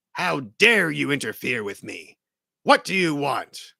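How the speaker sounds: altered villain voice, indignant; Green Goblin voice. Acted. Goblin confronting Spider-Man in the street, altered villain voice. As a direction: challenge the hero as the sneering Goblin. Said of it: "The Green Goblin says".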